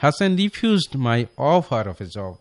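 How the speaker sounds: slow dictation of the right sentence; slow correct example. Shown as a demonstration. Teacher gives listeners the right sentence, slowly. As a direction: read the corrected version slowly. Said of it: "সে এটাকে refuse করলো".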